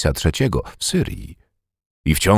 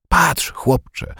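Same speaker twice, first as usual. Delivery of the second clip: put-on higher old man's call to the boy; 9 semitones higher than usual. A narrator's reading. Old veteran calls the boy to look, raised call. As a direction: call Patrz, chłopcze up high. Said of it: "zawołał".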